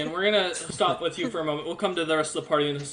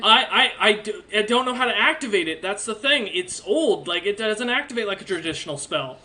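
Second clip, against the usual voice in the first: stammering start, slightly higher voice; a hint of a flustered kid explaining; lightly voiced kid; 4 semitones higher than usual. Kid explaining the old helm won't activate, stammering kid voice. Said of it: "He looks at you and goes".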